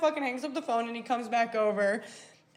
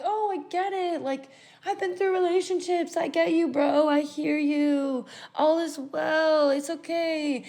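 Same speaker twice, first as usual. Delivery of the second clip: higher, drawn-out soothing tone; reassuring; 5 semitones higher than usual. Retold or imitated. Comforting her friend after the breakup, reassuring. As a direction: console him with slow, lilting sympathy.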